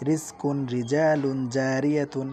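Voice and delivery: রিজকুন, রিজালুন, জারিয়াতুন with a light thin র. Shown as a demonstration. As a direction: say the র thin and light, not heavy. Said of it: "একদম পাতলা শোনাচ্ছে না র?".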